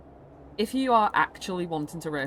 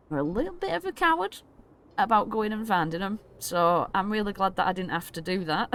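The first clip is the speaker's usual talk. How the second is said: pathetic man; 4 semitones higher than usual. Acted. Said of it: "like a pathetic man".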